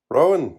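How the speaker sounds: "Rowan" high and loud with the D dropped. A narrator's reading. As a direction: call "Rowan" like a spun slogan. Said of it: "dropping the D's and getting more of a spin".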